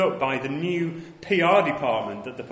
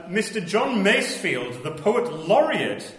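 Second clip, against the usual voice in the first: newsreel narrator; 4 semitones higher, 3 dB louder than usual. Pretend. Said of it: "my Pathé newsreel voice".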